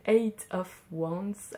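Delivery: slow English card name in a heavy French accent. Real, not acted. Tarot reader reads the English card name aloud, heavy French accent. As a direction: say it slowly with no effort to sound English, French accent. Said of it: "Avec mon magnifique accent, j'ai fait aucun effort".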